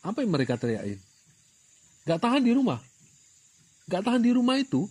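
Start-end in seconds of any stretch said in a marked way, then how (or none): 2.1-4.9 higher, louder mock complaint of restless people; mock yell. Preacher mimics covid crowds shouting about lockdown, mock yell. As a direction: yell it like a crowd fed up at home. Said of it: "orang-orang Jakarta teriak-teriak".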